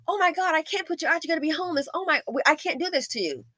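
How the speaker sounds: high, gushing fake concern; mock sympathy. Owner relenting to the evicted kid, high mock pity. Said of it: "Like, you were gonna go".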